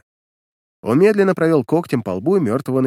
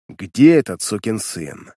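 slow, low, displeased growl; 3 semitones lower, slower than usual. Acted. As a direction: grind it out slowly through teeth. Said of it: "недовольно процедил Коготь". (недовольно процедил)

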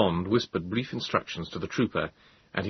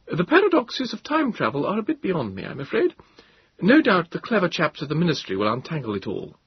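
higher, commanding officer's voice; higher voice of a commanding captain; Captain Bond, commanding; 9 semitones higher than usual. A narrator's reading. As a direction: state your orders as a firm officer, pitched higher.

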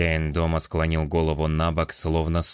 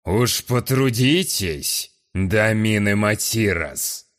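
higher, louder, slow and angry; 4 semitones higher, 3 dB louder, slower than usual. Acted. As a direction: spit the name out in anger. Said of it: "гневно дёрнул щекой".

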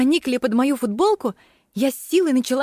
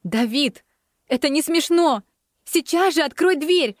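pleading; 3 semitones higher than usual. Acted. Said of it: "взмолилась я".

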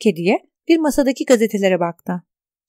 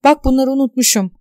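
angry; 3 semitones higher than usual. Acted. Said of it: "diyerek öfkeyle".

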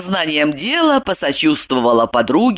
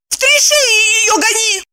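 high girlish command, lightly voiced; mock bark. A narrator's reading. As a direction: order it high and sharp. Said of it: "рявкнула Бобу".

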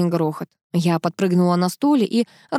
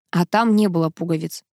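ordinary delivery, nothing marked

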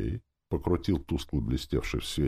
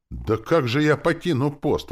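high, louder protesting question; dismayed exclamation; 11 semitones higher, 6 dB louder than usual. A narrator's reading. Soldier refusing to leave his post, exclaiming. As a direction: exclaim it, helplessly dutiful. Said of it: "воскликнул солдатик".

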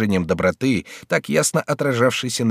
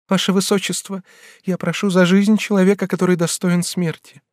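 a higher, lightly voiced young girl begging; young woman pleading; 8 semitones higher than usual. Bathilde kneels before the regent, begging, lightly voiced higher. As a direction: plead on your knees, voice lifted.

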